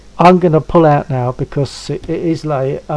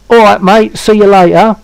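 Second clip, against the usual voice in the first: loud, raised Cockney sign-off; Cockney demo; 4 semitones higher, 5 dB louder than usual. Shown as a demonstration. Man setting his friend a Cockney line to copy, Cockney accent. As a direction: model a matey Cockney goodbye. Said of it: "talk to me in Cockney".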